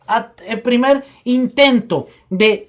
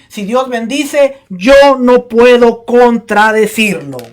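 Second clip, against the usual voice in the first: scripture reading; 3 dB louder than usual. Acted. Preaching scripture aloud.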